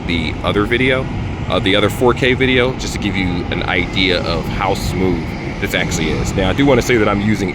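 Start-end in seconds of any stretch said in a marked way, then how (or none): 1.5-6.3 slightly muffled through earbuds; muffled voice on an earbud mic. Real, not acted. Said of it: "if I sound a little muffled".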